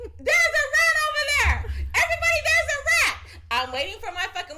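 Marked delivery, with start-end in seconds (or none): 0.0-3.2 high, laughing alarm call; loud warning shout. Pretend. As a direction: call out to everyone. Warning the whole restaurant.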